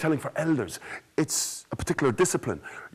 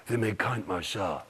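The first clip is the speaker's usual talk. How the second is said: spooky storyteller; 4 semitones lower, 5 dB quieter than usual. Shown as a demonstration. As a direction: draw them into a scary tale. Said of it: "telling a horror story".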